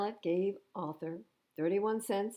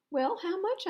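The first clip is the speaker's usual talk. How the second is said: high, louder pressing question; insistent girl voice; 13 semitones higher, 4 dB louder than usual. A narrator's reading. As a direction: push for the price like a girl. Wilma pressing in story.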